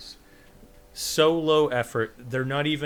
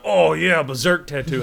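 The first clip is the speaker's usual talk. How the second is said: loud, eager burst of recognition; mock excited recognition; 3 semitones higher, 8 dB louder than usual. Imitating a stranger who spotted his tattoo, excited. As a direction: imitate an enthusiastic fan, starting high and loud.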